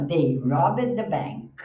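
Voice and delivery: very slow, clear classroom read; slow model sentence. Shown as a demonstration. Teacher reads an example sentence to the class. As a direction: read it slowly so students can follow. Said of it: "você fala".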